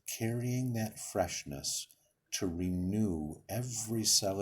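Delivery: calm, unhurried guiding voice with long pauses; guided meditation. Real, not acted. Leader settling listeners into breathing and imagery, guided meditation voice. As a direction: lead them gently through each breath, leaving space between phrases.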